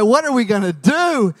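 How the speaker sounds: loud, hammed-up helpless wail; mock panic. Husband who only preaches, wife can't drive, mock panic. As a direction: cry out in mock desperation.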